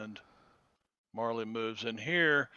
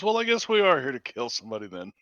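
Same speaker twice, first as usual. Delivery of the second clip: quick, louder in-character remark; Marley reacting; 5 dB louder, faster than usual. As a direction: toss it out fast and loud. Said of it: "Marley looks around and says".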